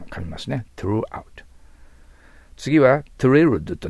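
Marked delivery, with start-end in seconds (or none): 0.8-1.4 "throughout" with the tongue tip bitten on th. Shown as a demonstration. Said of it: "ベロの先を噛み". (舌先を噛んで throughout)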